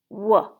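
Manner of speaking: W-E-F-E-R as isolated speech sounds with gaps; tapped sound by sound. Shown as a demonstration. Teacher tapping out weather, W-E-F-E-R sound by sound. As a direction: sound out W-E-F-E-R piece by piece. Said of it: "Let's tap it".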